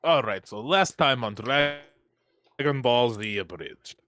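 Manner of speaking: put-on slow, thick Russian accent. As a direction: drawl it like a Russian soldier. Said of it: "I said that in a Russian accent".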